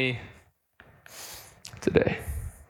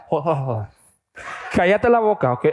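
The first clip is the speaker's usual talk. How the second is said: angry mom; faster than usual. Retold or imitated. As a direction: cut him off like a fed-up mother. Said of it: "She's like".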